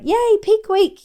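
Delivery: slow, high, sarcastic fake excitement; mock cheer. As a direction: drag out a sarcastic yay. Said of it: "I wasn't like".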